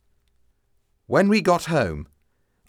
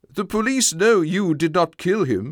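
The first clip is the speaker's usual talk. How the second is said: father voice; 5 semitones higher than usual. Acted. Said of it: "my father explained".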